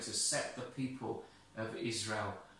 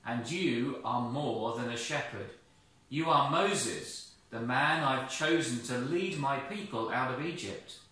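a lightly voiced firm, calling God; name him with authority. God calls Moses.

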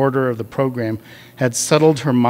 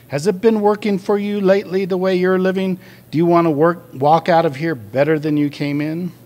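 lightly voiced group leader, higher pitch; savior act; 7 semitones higher, 3 dB louder than usual. A narrator's reading. Group leader challenging addicts about the way they live, mild savior act. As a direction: play at rescuing them with earnest, raised questions. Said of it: "Now he was doing the savior".

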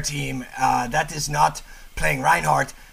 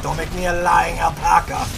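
excited shout; 3 semitones higher, 3 dB louder than usual. Real, not acted. Cheering at the replay.

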